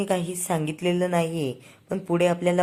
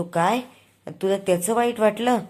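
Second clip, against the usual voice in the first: higher, louder incredulous question; surprised; 4 semitones higher, 4 dB louder than usual. Retold or imitated. Husband amazed his wife felt hurt, surprised. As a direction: blurt it out in disbelief.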